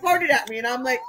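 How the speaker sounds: usual speaking voice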